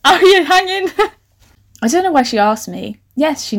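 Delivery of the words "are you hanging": mock coach voice. Voicing coach, laughing.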